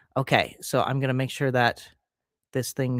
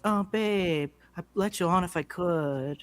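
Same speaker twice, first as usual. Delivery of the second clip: airy, offhand mock sympathy, a bit higher and softer; lightly imitating a woman who couldn't care less; nonchalant; 3 semitones higher, 4 dB quieter, slower than usual. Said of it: "this really nonchalant woman being like".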